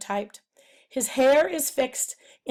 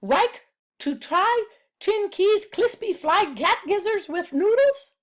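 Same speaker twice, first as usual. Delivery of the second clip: cartoon stereotype voice; 8 semitones higher, 3 dB louder than usual. Chin Ki offers his cousin a dish, in a high caricature voice. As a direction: play an over-eager caricature offering food. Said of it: "Chin Ki says".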